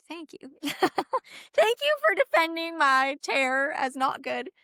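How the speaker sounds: high, laughing mock gratitude; laughing while thanking the doctor for the blunt word; laughing thanks. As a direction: giggle out a sarcastic thank you.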